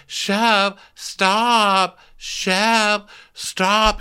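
high pleading scold; scolding Taylor. Retold or imitated. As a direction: plead with him to stop. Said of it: "Taylor's like".

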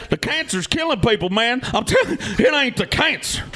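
high parody of the speaker; mocking parody. Parodying Derek's argument.

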